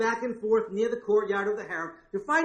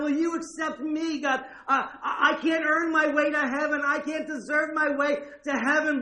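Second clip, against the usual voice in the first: humble plea; 4 semitones higher than usual. Pretend. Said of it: "Coming humbly on your knees saying".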